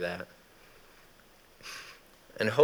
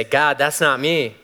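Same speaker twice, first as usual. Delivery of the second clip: high, louder, pleading; panicky excuses; 6 semitones higher, 4 dB louder than usual. Retold or imitated. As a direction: wriggle out of the call in a panic. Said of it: "we say".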